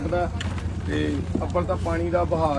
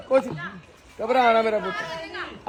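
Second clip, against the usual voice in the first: calming; 4 semitones higher, slower than usual. Real, not acted. Calming crying child during rescue.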